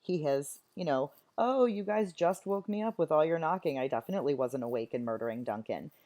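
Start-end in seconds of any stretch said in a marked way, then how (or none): 1.4-5.9 playing dumb. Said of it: "Macbeth is going to play dumb".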